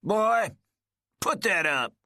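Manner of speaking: put-on sudden high, loud old man's order; old man jolted by the gun; alarmed old man; startled old man.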